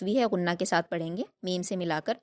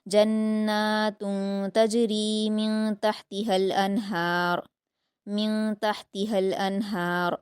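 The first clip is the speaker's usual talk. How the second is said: slow, melodic Quran recitation; tajweed recitation; much slower than usual. Shown as a demonstration. Teacher reciting the verse for the student. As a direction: chant the verse with elongation.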